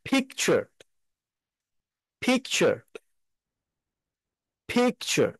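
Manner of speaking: পিকচার with a breathy puffed ph; aspirated English p. Shown as a demonstration. Teacher models পিকচার for students, puffed ph. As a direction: say পিকচার with strong aspirated ph and light t. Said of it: "এটা আমরা কিভাবে উচ্চারণ করব?".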